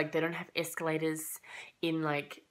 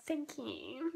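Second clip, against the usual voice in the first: laughing thanks to the annoyed stranger, higher; 11 semitones higher, 5 dB quieter than usual. Retold or imitated. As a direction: thank you through a high giggle.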